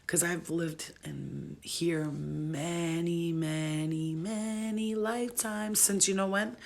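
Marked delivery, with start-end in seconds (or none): 2.0-5.8 "many, many, many" stretched long, rising on the last; drawn-out many. Real, not acted. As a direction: draw out each "many". Stressing how many lives.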